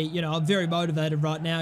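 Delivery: deadpan sarcasm, clearly unmotivated; sarcastic. Real, not acted. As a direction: say it flat, meaning the opposite. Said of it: "as you can tell by the tone of voice".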